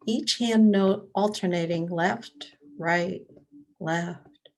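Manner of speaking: meditation leader with long pauses between prompts; guided meditation. Real, not acted. Leading library attendees through breath and body awareness, guided meditation. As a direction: guide listeners step by step, leaving room to breathe.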